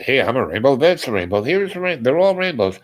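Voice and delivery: playfully exaggerate, rising with each example; mock protest. Storyteller acts the reply he held back, mock indignant protest. Mocking reply he did not give.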